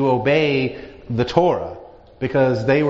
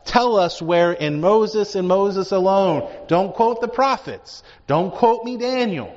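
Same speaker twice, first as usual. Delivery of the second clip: mock pleading; 4 semitones higher than usual. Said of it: "they were like".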